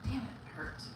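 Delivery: muttered pain. Real, not acted. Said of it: "I just burned my hand".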